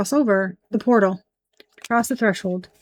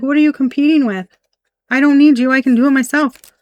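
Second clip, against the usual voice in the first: higher, quick dismissive comeback; defiant retort; 3 semitones higher, 4 dB louder than usual. Acted. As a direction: act out someone proudly needing nobody. Voices the card figures' defiance.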